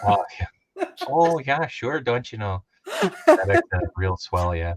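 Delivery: lightly done Minnesota sing-song; a hint of folksy Minnesota accent. Joking about Midwestern talk, light Minnesota accent. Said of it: "thick Minnesota accents".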